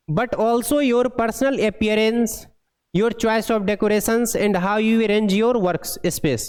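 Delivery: slow, even dictation of an English passage; deliberate read-aloud pace; slow textbook reading. Acted. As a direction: read each word out slowly for the class. Reads English text aloud slowly.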